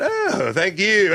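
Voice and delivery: drawn-out gracious thanks, hand out; a slow, bashful Dom DeLuise thank-you; imitating a gracious comic's slow thanks; slow humble thank-you. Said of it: "he put his hand out and he went".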